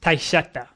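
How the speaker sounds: taisheta said haltingly; foreign word. Shown as a demonstration. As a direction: stumble through taisheta. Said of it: "I'm gonna pronounce this horribly".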